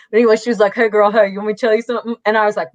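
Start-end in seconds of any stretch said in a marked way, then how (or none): 0.7-2.1 put-on casual girlfriend greeting with a Southern lilt; Southern accent. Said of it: "more of a Southern accent".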